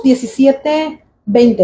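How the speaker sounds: slow, deliberate verse reference; slow citation. Shown as a demonstration. Preacher citing the verse slowly for the congregation. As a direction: spell out the chapter and verse slowly. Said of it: "¿Dónde lo leímos?".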